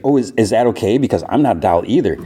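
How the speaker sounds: mock-innocent sarcasm, lightly acted; sarcastic. Mayhem taunts the group as a non-doll, sarcastic. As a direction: feign a polite question with sarcasm. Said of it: "she sarcastically is like".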